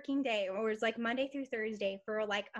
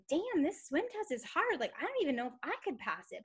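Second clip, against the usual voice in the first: worried inner voice; 4 semitones higher than usual. Retold or imitated. A mother recalls her doubt at the swim test, lightly worried. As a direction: lightly act out her own nerves about the test. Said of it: "I was like".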